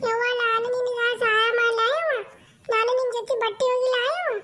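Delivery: put-on a little girl offering help; small girl asking sweetly; child voice. Daughter asks her mother if she can help with the washing, light child voice.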